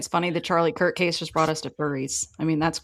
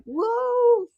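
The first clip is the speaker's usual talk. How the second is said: surprised whoa. Retold or imitated. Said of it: "I was like".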